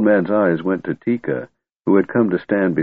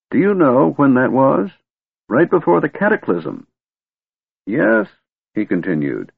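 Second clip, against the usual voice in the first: put-on grumpy old wizard; 4 semitones higher than usual.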